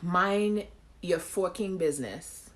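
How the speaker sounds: "forking" drawn out slowly to sound like a swear word; playful pun pronunciation. Shown as a demonstration. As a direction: say "forking" slowly, hinting at the curse. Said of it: "the way that the words sound".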